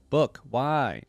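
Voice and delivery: a touch of a plaintive cry. Acted. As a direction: call out to Book in light dismay. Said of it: "I cry".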